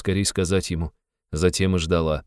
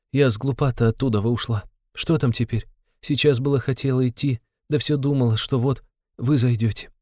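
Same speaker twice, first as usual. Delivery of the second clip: put-on higher, timid young woman; Sonya's voice; 7 semitones higher than usual. Sonya, anxious, to Raskolnikov, in her raised timid voice. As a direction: speak up high like anxious Sonya.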